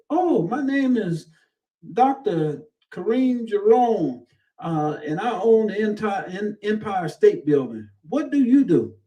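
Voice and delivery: a party guest bragging to a stranger, high and pompous; pompous self-introduction. Retold or imitated. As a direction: puff up like a big shot showing off his titles. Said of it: "they said".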